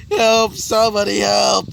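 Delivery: high, loud call for help; acted cry for help. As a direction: call out like someone hurt, hammed-up. Injured man calls for help.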